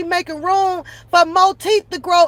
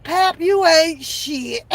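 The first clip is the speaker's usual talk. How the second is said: slow mock chat insult; 2 semitones higher, slower than usual. Shown as a demonstration. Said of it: "Y'all can type".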